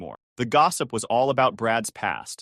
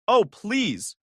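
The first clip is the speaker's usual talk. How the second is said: snapped; 9 semitones higher, 3 dB louder than usual. A narrator's reading. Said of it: "Amy snapped".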